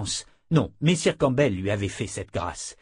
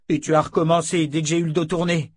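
higher, indignant accusing cry; cri de colère; 6 semitones higher, 4 dB louder, faster than usual. A narrator's reading. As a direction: keep the accusation raised and angry. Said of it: "cria-t-il". (reproche crié, voix montée)

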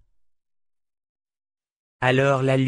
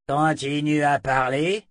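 thug command; 3 semitones higher, slower than usual. Acted. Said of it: "dit le plus musclé des types".

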